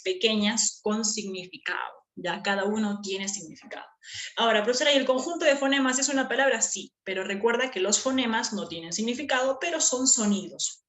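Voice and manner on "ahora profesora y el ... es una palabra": lightly voiced pupil, quick and raised; student's question. Student asks teacher about phonemes, lightly acted quick question. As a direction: pretend to be a student with a quick query.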